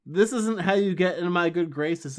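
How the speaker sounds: half-hearted retold telling-off; mock yelling Buffy. Recapping Buffy yelling at Andrew, a mild mock scold. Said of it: "Buffy's yelling at Andrew".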